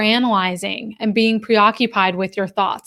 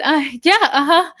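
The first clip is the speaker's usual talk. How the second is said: higher, awkward little brush-off; nervous agreement; 6 semitones higher than usual. Retold or imitated. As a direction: imitate someone flustered, agreeing uneasily. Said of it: "nervously laughed and said".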